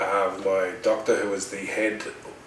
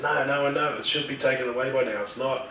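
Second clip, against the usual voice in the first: raised, insistent protest; retold panic; 5 semitones higher than usual. Patient insisting the morphine has failed, mildly panicked. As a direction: argue urgently at a higher pitch. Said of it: "in this sort of panic stage".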